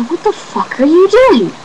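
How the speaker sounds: high, slowed, incredulous shout; hammed-up indignant yell; mock outraged yell. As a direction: replay the yell as an over-the-top translation. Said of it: "which really translates to".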